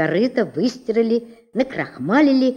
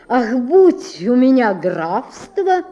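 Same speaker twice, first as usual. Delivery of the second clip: dreamy laugh; 3 semitones higher, 4 dB louder, slower than usual. Acted. Collar dreams of a county.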